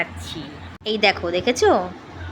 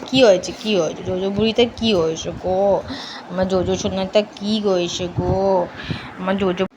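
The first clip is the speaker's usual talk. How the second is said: tender pet talk; 3 semitones lower than usual. Real, not acted. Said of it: "একটু খুঁচিয়ে খুঁচিয়ে একটুখানি ওকে charm করতে হয়".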